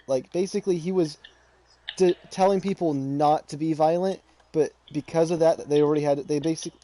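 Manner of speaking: stumbling over words; tripping over the words, restarting; stutter. Real, not acted. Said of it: "I'm stuttering".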